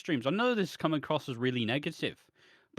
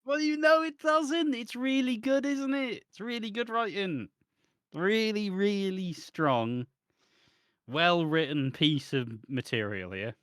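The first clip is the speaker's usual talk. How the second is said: sarcastic praise; 4 semitones higher than usual. Acted. Mock praise of shoddy writing.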